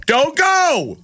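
high, coaxing salesman voice, rising to a squeal; mock pleading Amazon. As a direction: beg the shopper to stay, hammed up. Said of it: "Amazon's trying to say".

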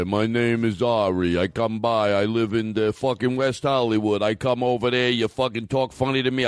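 lightly voiced macho braggart; a touch of a drunk tough guy bragging; mild mock bar brawler. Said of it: "He's talking to himself".

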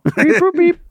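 robot beeps; chirpy robot beep noises; computer processing. Retold or imitated. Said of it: "my buddy Stephen Hawking".

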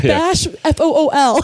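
a laughing mock Chicano accent; Latin gang accent through a laugh. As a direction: spell the nickname like a Latin Kings member. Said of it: "a joke about the Latin kings".

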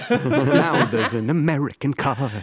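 laughing through the line. Retold or imitated. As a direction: giggle through it. Imitating Ford ad, laughing.

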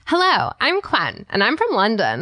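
put-on London accent; British accent. Shown as a demonstration. Co-host showing off to her friend, British accent. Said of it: "do a British accent".

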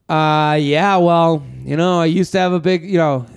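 snide mock comparison to an ex; dripping sarcasm, needling; sarcastic hurtful tone. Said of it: "here's the tone where they go".

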